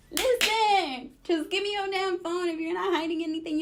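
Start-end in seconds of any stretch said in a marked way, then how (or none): 0.1-2.5 loud, higher demand for the phone; heated, rising demand. Retold or imitated. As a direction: push him hard to hand it over. Confronting him over the phone.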